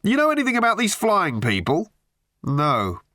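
butter him up with absurd pet names; gushing hack journalist. A narrator's reading. Tabloid journalist gushing down the phone at Arthur. The speaker's voice again.

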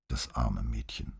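hushed, low and slow; slow, near-whispered sympathy. A narrator's reading. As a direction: murmur it softly in pity. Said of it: "flüsterte Paola".

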